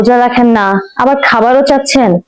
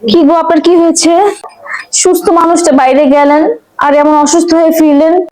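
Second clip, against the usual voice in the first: worried whisper; 5 semitones higher than usual. Acted. Wife worried over sick husband.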